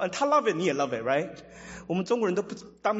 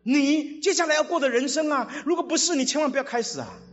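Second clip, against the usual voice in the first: raised voice, pressing each question home; loud earnest warning; 5 semitones higher, 5 dB louder than usual. Acted. Jesus warning followers to count the cost, loud and earnest. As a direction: warn them loudly as Jesus.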